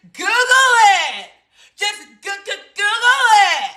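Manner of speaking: high, loud Google it; mock urging. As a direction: push it at her like a coach. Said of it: "repeating her own punchline".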